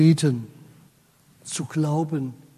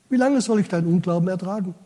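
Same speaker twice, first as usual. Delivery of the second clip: quick paraphrase; much faster than usual. Retold or imitated. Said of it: "Stellt euch mal vor, das würde Jesus uns sagen".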